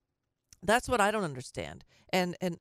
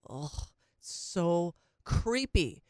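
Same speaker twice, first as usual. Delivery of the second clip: disgusted; much slower than usual. Real, not acted. Disgust at news item.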